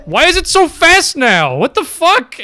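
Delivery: high, loud, startled shouting; panicked yelling. Real, not acted. Player chased by a fast ghost, panicked yelling. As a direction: yell in real fright as it rushes you.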